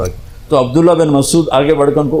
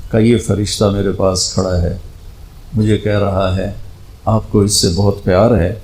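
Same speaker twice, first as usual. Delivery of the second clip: ordinary talk, nothing marked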